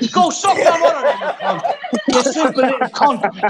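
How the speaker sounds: jeering through a laugh; laughing insult. Real, not acted. Laughing at a rival while insulting him, jeering.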